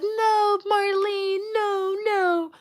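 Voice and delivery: high, drawn-out mock mom; imitating mom. Imitating her mom brushing off her worries in a high voice. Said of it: "Mom was like".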